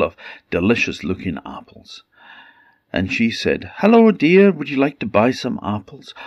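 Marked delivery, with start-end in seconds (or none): 3.8-6.1 put-on high, sugary old peasant woman voice; sweet-talking the girl at the door; disguised queen.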